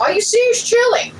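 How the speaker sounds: talking through a mouthful of food; mouth full. Real, not acted. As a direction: say it while chewing a bite. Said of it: "Talking with your mouth full".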